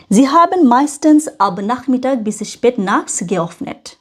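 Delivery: very slow, careful textbook read; slow German reading. Shown as a demonstration. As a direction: read each word out slowly for learners. Reads German text slowly. (ধীরে ধীরে German পড়া)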